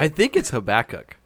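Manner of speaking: Habakkuk with stress on the middle, ha-BACK-uk; other pronunciation. Shown as a demonstration. Friend correcting a Bible name, stressing the middle of Habakkuk. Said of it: "more emphatic about the way you don't say it".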